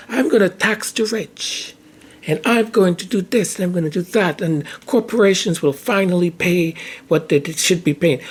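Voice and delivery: lightly voiced politician promising. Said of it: "We have people who sell us this whole idea".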